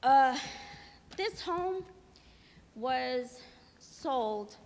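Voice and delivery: breathy, winded words between gulps of air; out of breath. Real, not acted. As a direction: still catching breath after running. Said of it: "I'm out of breath 'cause I was running".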